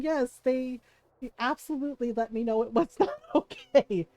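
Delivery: laughing through "not okay". Retold or imitated. Friend admitting the kids scolded her, laughing. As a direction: giggle out the admission. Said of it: "she's laughing, going".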